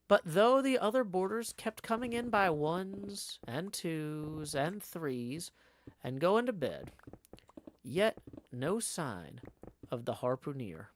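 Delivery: measured audiobook-style reading; story narration. A narrator's reading. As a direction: narrate the tale with lively phrasing. Reads the novel aloud.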